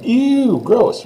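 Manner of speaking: grossed-out Ew, gross; mock disgust. Shown as a demonstration. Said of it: "kind of like I would say you got a booger".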